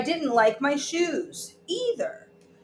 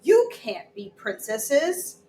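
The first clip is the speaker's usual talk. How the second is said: bossy refusal; 4 semitones higher, 4 dB louder, slower than usual. Acted. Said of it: "I kept saying".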